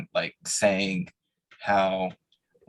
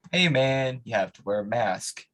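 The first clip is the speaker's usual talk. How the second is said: retold call-out, slightly raised; projected call across the room; 3 semitones higher than usual. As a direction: lightly project it to someone at the door. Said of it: "projected my voice".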